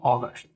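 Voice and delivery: अगस्त said as "ogəst", clipped final t; model pronunciation. Shown as a demonstration. Teacher to class, crisply modelling अगस्त. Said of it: "ऐसे बोलते हैं अगस्त".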